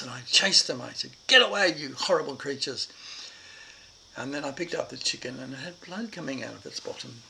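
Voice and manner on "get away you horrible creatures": louder, scolding yell at the hens; angry cry at pecking chickens; furious shout. Retold or imitated. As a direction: shoo the chickens off in a fury. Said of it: "I was furious".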